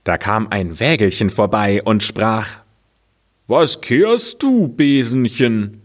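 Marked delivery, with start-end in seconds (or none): 3.5-5.8 little cart. Acted. Cart asks the broom.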